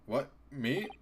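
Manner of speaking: awkward fake laugh at the end; nervous feigned normality. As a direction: act innocent, badly. Character nervously pretending normal.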